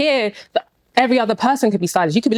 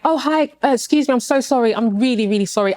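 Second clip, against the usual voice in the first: re-enacted apologetic politeness; politely apologetic. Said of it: "So for me, it's like".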